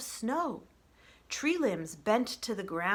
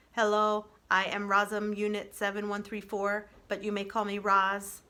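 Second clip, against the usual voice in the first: lightly voiced robot, a touch louder; automatic robot greeting; 4 dB louder than usual. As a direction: recite it like a machine just booting up. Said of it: "the robot said automatically".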